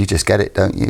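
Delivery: ordinary delivery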